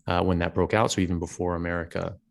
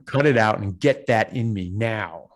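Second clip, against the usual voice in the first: put-on impatient toddler; 3 semitones higher, 5 dB louder than usual. Voicing toddler's impatient demand.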